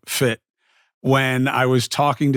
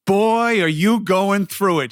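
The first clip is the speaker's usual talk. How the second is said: lightly voiced lady, a little higher and knowing; imitating the speed walker lady; 5 semitones higher, slower than usual. Retelling how the speed walker lady greeted him, lightly imitated. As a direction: mimic a stranger's blunt pitying remark. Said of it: "and she's like".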